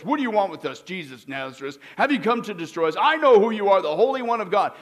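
acted outcry that swells toward the end; mock demon outcry, loudest at the close; crying out. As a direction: cry out, building to a loud declaration. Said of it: "He cried out at the top of his voice".

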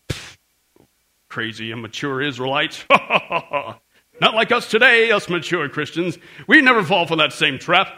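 lightly voiced smug Christian scoffing; a hint of self-satisfied superiority; smug mocking voice. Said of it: "that's how we walk around and talk".

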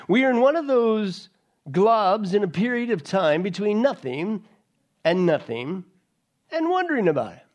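a light, hammed-up British accent, reading with a pipe; amused mock British lecture; mock British professor. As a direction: play the pompous British scientist with an English lilt. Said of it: "he's got the accent, too".

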